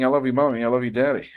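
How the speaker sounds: hammed-up baby talk to its parents; mock baby voice, only a touch put on; imitating a newborn. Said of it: "crying and saying".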